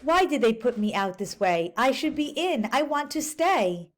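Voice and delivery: mild storybook complaint; lightly voiced pleading leopard. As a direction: read the leopard asking to stay.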